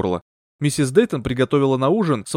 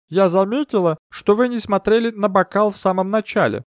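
higher, otherworldly medium voice; mystic medium; 8 semitones higher than usual. Acted. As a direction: draw them into the séance. Medium talks to the maid.

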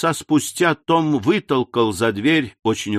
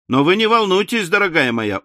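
soothing; 6 semitones higher than usual. A narrator's reading. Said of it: "успокаивал Том Смарт".

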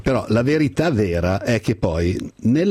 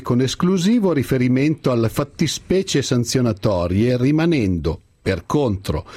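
theatrical swelling poetry reading. Acted. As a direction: recite it like a school Christmas poem. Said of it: "mi sono preparato due o tre brani da declamare".

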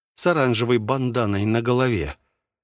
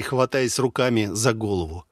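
ordinary delivery, nothing marked

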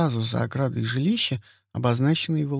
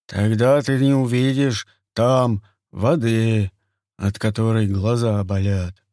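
sly hunter voice; 4 dB louder than usual. Acted. Turgam voiced by narrator.

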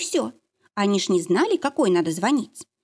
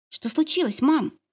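a daughter asking in alarm, voice up high; worried and sleepy; girl anxiously asking her mother; anxious question; 7 semitones higher than usual. Acted. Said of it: "с тревогой спросила заспанная Полька".

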